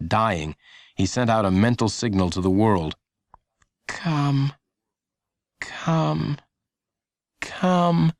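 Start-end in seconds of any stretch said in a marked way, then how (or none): 3.9-8.1 higher, inner pleading call; silent willing. A narrator's reading. Lenny willing people with his mind, a higher pleading call. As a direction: summon with the mind, drawn out. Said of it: "Silently, he willed".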